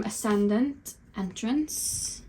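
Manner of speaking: put-on drawn-out Valley Girl accent, slow. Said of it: "Valley Girl accent then, a Kardashian accent".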